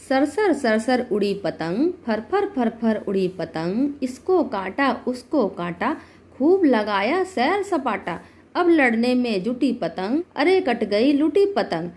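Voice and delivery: poem recitation. Shown as a demonstration. Teacher reading a kite poem to learners, poem recitation. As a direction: recite it in even, rhythmic lines. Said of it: "एक कविता पढ़ूंगी आप लोगों के लिए".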